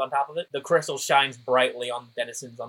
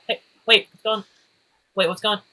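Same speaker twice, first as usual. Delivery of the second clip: alarmed Tyler; 9 semitones higher, faster than usual. Acted.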